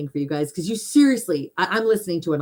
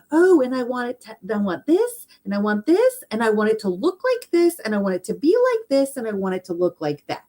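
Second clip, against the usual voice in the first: mocking wishful whine; 4 semitones higher than usual. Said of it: "here we come along in our little life going".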